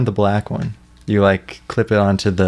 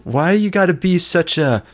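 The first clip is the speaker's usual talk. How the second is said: Walt Junior; 7 semitones higher, slower than usual. Retold or imitated. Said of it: "He would be".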